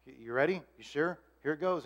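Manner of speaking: soft, careful check-in; hushed, tender lead-up; gentle revealing. Retold or imitated. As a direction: prepare them gently, quietly. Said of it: "has a way of revealing it".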